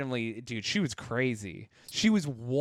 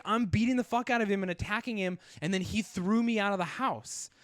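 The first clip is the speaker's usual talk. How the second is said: lightly voiced ex, pitch raised; indignant ex; 5 semitones higher than usual. Ex telling cops her side, mildly mock-indignant. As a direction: imitate the ex's higher voice. Ex's confession to cops acted out.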